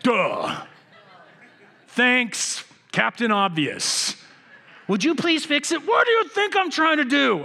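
high, loud mock official voice then exasperated retort; mocking HOA letter. Pastor mocking the HOA letter about his dying grass, high and loud. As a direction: ham up the pushy HOA and snap back. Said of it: "the H O A decides to jump right on top".

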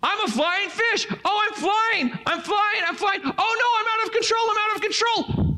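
high, squeaky panicky cartoon fish; flying fish voice. Older brother voicing the swung fish, high panicky cartoon voice. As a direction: pitch way up and play the fish losing control. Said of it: "he would do this narrative of the fish".

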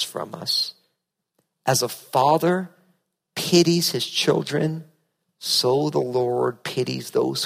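slow, measured scripture reading; solemn psalm reading from the pulpit. Acted. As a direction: read the psalm slowly and reverently. Reads a psalm aloud.

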